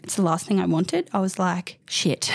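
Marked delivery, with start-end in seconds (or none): 1.9-2.3 a dismayed whispered curse. Retold or imitated. Realising she has postnatal depression, whispered curse. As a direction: let it slip under your breath. Retold reaction to realising PND.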